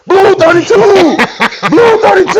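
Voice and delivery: high, loud quarterback cadence, last word stretched; hollered football call. Retold or imitated. Old head teasing grandma at the function, hollered football call. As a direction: holler it like calling a play.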